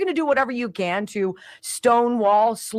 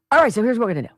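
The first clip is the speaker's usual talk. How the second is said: imitating Besson; faster than usual. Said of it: "Here's Scott Besson. He's like".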